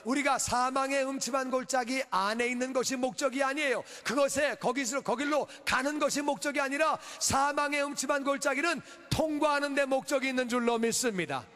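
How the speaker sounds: high-energy sermon delivery; impassioned preaching. Real, not acted. Pastor urging congregation to believe God protects, impassioned preaching. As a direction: preach it out with ringing conviction.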